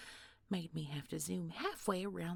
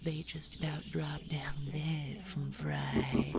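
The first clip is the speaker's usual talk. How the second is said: creepy whisper. Acted. Villain's threatening secret.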